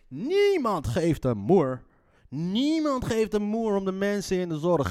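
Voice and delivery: high, emphatic indignation; indignant rant. Real, not acted. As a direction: hammer it out, outraged. Indignant rant about healthcare hypocrisy.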